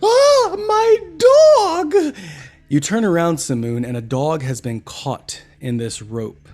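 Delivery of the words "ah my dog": very high, loud shriek of panic; panicked scream. Acted. Lady screaming as her dog is sucked away, panicked shriek. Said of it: "A lady yelling".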